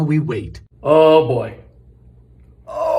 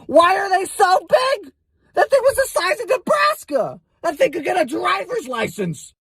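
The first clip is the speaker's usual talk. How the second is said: much higher shrill-edged outrage; squeaky disbelief; 12 semitones higher than usual. Retold or imitated. Complaining to neighbours about the raccoon, high mock disbelief.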